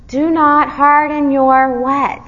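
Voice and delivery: teacher's loud, measured cue for the missing word; fill-in-the-blank prompt. Real, not acted. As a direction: draw out each word, leading listeners to answer WHAT. Prompting congregation to finish verse.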